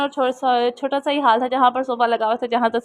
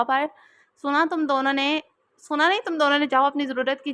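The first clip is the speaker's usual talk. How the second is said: a sharp raised order, higher pitched; shouting; 3 semitones higher than usual. A narrator's reading. Father ordering his daughters to leave, half-shouted. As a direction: bark at the daughters to pack up. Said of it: "तस्लम साहब के चीख के बोलने पर".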